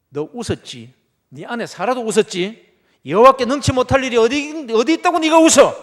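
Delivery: rising rebuke, climbing to a roar; building scold. Acted. (점점 커지는 호통)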